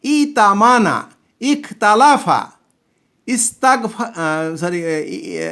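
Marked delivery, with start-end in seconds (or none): 0.0-4.0 slow model words. Shown as a demonstration. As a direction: list the form-eight verbs slowly. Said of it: "আট number form কি?".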